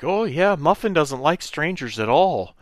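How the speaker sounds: mock high-voiced aunt; imitated aunt. Aunt voiced agreeing with husband.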